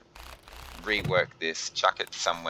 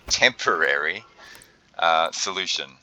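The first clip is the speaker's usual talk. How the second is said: air quotes. Real, not acted. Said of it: "I'm doing the, the quotation signs".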